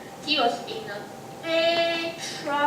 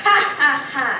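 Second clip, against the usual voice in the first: mock laugh; 7 dB louder, faster than usual. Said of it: "He laughed".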